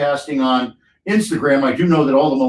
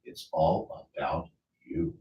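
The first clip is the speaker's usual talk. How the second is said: upbeat radio commercial voice; ad read; 3 semitones higher than usual. Acted. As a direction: pitch it like a local ad.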